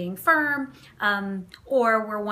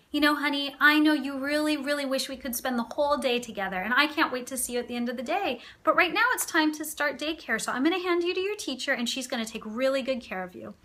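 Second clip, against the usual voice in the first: kind and firm; 3 semitones higher than usual. Shown as a demonstration. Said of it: "an example of how to be both kind and firm".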